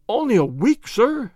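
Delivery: high, loud despairing plea; despairing cry. Acted. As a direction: beg in disbelief, voice jumping up. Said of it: "in a despairing voice".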